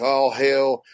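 slow, grand proclamation; hammed-up ritual decree; mock ceremonial priest. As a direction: intone it like a mock high priest. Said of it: "be like".

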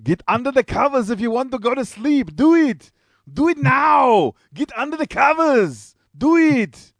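high, put-on voice ordering kids to bed; playful father voicing a funny high character for little kids at bedtime; silly bedtime voice. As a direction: squeak the bedtime orders like a cartoon. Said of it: "I'd be like".

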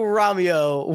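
repeating Romeo with only a hint of theatre; lighter Romeo repeat. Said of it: "Typical Shakespearean tragedy".

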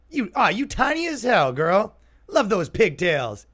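high, loud leering catcall; mock catcaller. Fake catcaller calling to a small girl, high and loud. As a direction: lay it on like a sleazy street guy.

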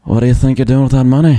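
fast, lightly voiced mafia boss; a quick hint of a menacing mafia boss. Pitching Lincoln as a mafia boss, mild mock menace. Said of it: "like, the mafia boss".

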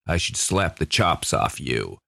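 slow Jimmy Cagney-style tough guy; drawled hard-boiled threat; hard-boiled noir narrator. Shown as a demonstration. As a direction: play an old gangster-film narrator. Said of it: "we have the hard-boiled narrator".

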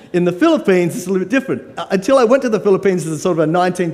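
ordinary talk

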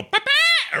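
very high squeaky fairy call; Navi chirp. Retold or imitated. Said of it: "it would always go".

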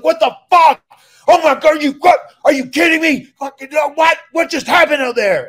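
furious yelling. Retold or imitated. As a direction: explode at them, bleeding and livid. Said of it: "And he's mad".

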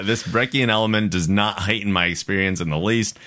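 measured, lilting read-aloud; listener email read-aloud. A narrator's reading. Host reading Kendra's email to listeners, measured read-aloud. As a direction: read the letter out for an audience.

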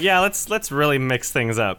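amused fake enthusiasm; mock enthusiasm. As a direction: pitch it like a keen producer. Imagined casting people, laughing mockery.

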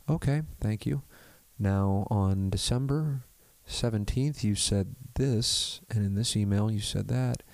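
cool, measured courtroom calm; slow and steady, unbothered; calm lawyer voice. Retold or imitated. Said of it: "It's so calm".

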